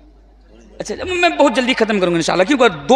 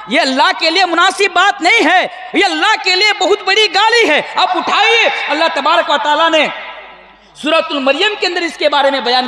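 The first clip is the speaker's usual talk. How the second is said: raised, emphatic sermon voice; impassioned preaching; 8 semitones higher than usual. Real, not acted. Preacher rebuking his brothers over a grave insult to Allah, impassioned preaching. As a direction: preach it forcefully in a higher pitch.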